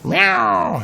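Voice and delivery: crowd of cats crying out. Acted. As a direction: cheer like a whole church of cats. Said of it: "exploded with cries of".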